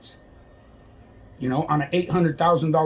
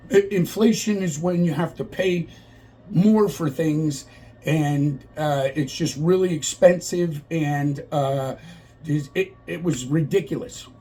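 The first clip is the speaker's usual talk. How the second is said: mock flustered answer; slower than usual. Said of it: "She was so flustered and confused".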